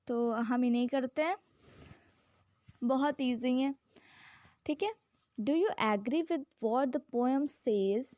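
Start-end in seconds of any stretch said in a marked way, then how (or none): 5.4-8.1 reading a definition aloud, very slowly; slow, careful classroom read-aloud; slow textbook reading. Acted. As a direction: dictate each word so students can follow. Reads textbook question slowly.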